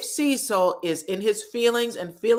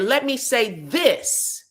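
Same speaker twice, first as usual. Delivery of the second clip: mock pompous husband; 4 semitones higher, slower than usual. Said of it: "and he said".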